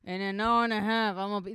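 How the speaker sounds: stiff, unsmiling Yemeni-Israeli commander; deadpan Yemeni accent. Retold or imitated. Commander ordering soldiers, deadpan Yemeni-Israeli accent. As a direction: order it without moving the face. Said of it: "they don't move their facial, their face a lot when they talk".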